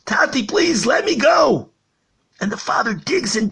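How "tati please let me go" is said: put-on frightened child pleading. A narrator's reading. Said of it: "the child starts screaming".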